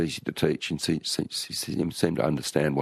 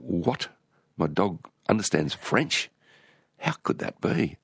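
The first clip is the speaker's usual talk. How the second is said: retold astonishment, pitched up and drawn out; stunned at the dog, word by word; amazed disbelief; 4 semitones higher, slower than usual. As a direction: act out a baffled double take. Retells his amazed thought.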